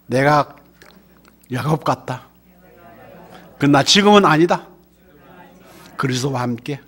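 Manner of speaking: preacher leading a spoken confession; call to recite. Shown as a demonstration. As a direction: recite it for the congregation to echo. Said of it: "왜 말 안 해요?".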